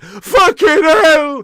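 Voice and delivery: loud, slow, stretched-out "Fucking hell!"; drawn-out exclamation. Retold or imitated. Streamer replaying his own reaction in the documentary, stretched loud. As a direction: drag the curse out in dismay. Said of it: "it's me going".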